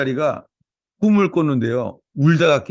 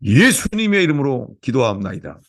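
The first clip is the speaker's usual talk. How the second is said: opening prayer; 3 semitones higher than usual. Real, not acted. Pastor praying over the church, fervent prayer. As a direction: pray it out over the congregation.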